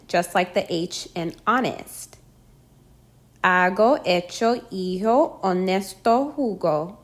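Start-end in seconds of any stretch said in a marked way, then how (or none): 3.4-7.0 Hago, hecho, hijo, honesto begun on the vowel, no H sound; silent H. Shown as a demonstration. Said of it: "The letter H is always silent".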